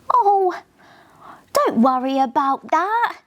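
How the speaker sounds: gently. Acted. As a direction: reassure the sad car gently. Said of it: "Eco said gently".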